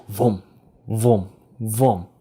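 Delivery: spaced-out mock "vum" thuds; imitated tumbling noise. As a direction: sound out each bounce, pausing between. Imitates her tumbling down the cliff.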